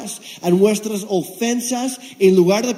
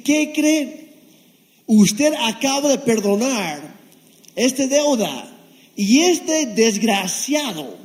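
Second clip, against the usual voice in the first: siervos indignados; 2 semitones higher, slower than usual. Acted. Siervos acusan ante el rey.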